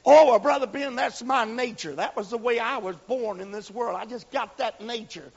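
mock a stubborn believer; excuse-maker's voice. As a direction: parishioner excusing a grudge to the preacher.

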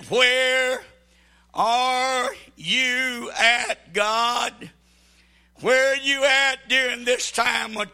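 loud pleading call, dragged out; anguished cry to God. Retold or imitated. Worshipper screaming to God in trouble, anguished cry. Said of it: "you're screaming and saying".

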